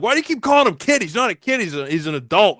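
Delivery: high-pitched mimicked complaint; mock objection. Army buddies ribbing him about saying kid, mock objection. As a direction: imitate a needling objection, starting high and settling down. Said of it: "used to give me shit about that".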